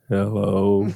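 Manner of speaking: low, mock mother's phone greeting; imitating Mom. Brother mimicking Mom answering the phone, low imitated voice. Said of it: "You mean like this?".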